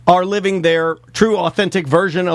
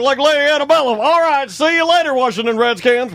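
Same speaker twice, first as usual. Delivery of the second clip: put-on clueless old man; 5 semitones higher than usual. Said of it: "you're like".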